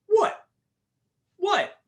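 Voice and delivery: very high-pitched mock bafflement; baffled. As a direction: squeak it like a puzzled girlfriend. Girlfriend baffled by his sudden laughter.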